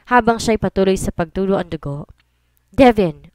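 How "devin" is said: calling his name loudly; loud urgent call of a name. Acted. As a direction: shout the name to get his attention. Teammate calls out urgently.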